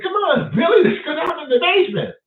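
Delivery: put-on high eager voice of a white teen in a horror film; white horror movie teen.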